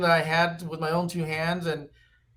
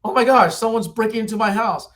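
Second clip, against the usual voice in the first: alarmed Betty White; 5 semitones higher, 5 dB louder than usual. Acted. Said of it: "She's like".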